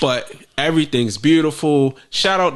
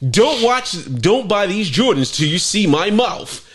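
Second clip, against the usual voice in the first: clickbait video narrator; 5 semitones higher than usual. Pretend. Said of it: "That's how the niggas feel in them videos".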